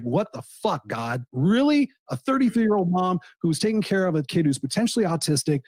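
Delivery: half-acted outrage, pitch jumping up on the disbelief; grieving friend retelling how he raged at God, mildly angry; retold anger. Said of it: "I was so mad and I was so angry".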